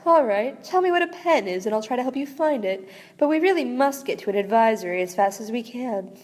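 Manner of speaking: a lightly swooping, theatrical star voice, a hint of Snape; swoopy star voice. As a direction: sweep through the words like a vast gentle star. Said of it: "it gets the swoopy voice".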